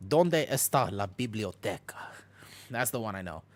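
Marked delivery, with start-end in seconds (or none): 0.1-2.0 Spanish with a Thai accent. Shown as a demonstration. Streamer shows viewers his Spanish, Thai accent. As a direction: say the Spanish as a Thai speaker would. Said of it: "I speak it in a Thai accent".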